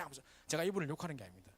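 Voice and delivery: normal talking voice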